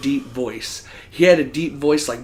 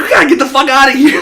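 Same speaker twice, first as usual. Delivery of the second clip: rushed, high, giggling urgency; laughing panic; 11 semitones higher, 9 dB louder, faster than usual. Retold or imitated. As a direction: flee the scene laughing. Fleeing, laughing.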